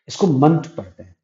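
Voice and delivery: मंट said short, munt, not ment; suffix pronunciation. Shown as a demonstration. Teacher showing students how to read the suffix, a short munt. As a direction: stress the short vowel in मंट. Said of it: "मेंट नहीं".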